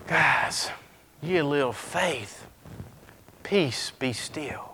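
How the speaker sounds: low, soft, calm, ending in a whisper; calm Jesus. Acted. Jesus quieting the sea with a soft whisper. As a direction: hush the storm gently.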